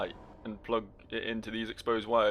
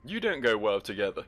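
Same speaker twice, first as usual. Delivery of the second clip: mock telling-off; 4 dB louder than usual. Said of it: "Yeah, I fucking told him".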